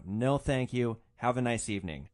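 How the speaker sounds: flatly polite brush-off; firm, unmoved goodnight; flat refusal. Retold or imitated. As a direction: turn him down flatly but courteously. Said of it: "So I just flatly".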